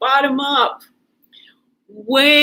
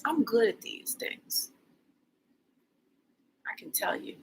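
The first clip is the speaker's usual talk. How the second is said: whisper; 10 dB quieter than usual. Real, not acted. Whispered self-praise aside.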